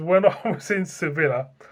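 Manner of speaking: speaking through breathy giggling laughter.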